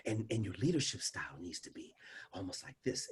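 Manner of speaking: hushed, barely voiced leadership tone; whispered demo. Shown as a demonstration. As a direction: drop to a near-whisper to show control. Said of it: "used to talk like this".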